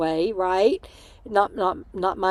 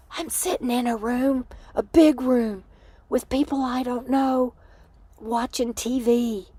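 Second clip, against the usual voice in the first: lightly voiced, slightly higher sister; imitated sister; 4 semitones higher than usual. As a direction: quote her in a higher, measured voice. Retelling sister's hesitant reply.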